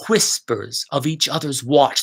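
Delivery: slow line savouring the W sounds; slow, leaning on the W's. Shown as a demonstration. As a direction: stress the W in Whispers and watch. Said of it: "Those W's come in and we hear that".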